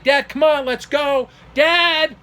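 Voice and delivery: high, loud call to dad; imitated yelling. Son yelling to his father to leave, imitated screaming. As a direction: re-enact yelling urgently for your father. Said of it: "Screaming like this".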